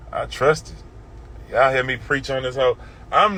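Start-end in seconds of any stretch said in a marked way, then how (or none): 0.1-1.5 slow, breathy whisper of faith; whispered trust. Real, not acted. Testifying to the Lord, a slow whisper. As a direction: let it out slowly, no voice.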